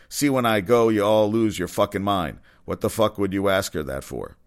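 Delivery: mildly angry read-out of a rant; indignant retelling of someone's outburst; heated rant. Retold or imitated. Sportscaster reads out comedian's tweet defending hockey player, mildly heated. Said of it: "she was a little heated".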